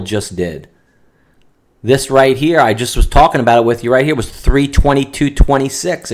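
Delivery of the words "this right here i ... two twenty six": fast and loud, pointing at the chart; excited. Real, not acted. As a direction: rush it out, eager and urgent. Excited at a sudden price drop.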